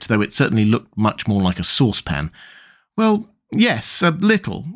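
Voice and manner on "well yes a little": high, tactful reply; gentle. A narrator's reading. Alice sparing Tweedledum's feelings, gentle. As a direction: lightly soften it, pitched up. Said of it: "replied Alice gently".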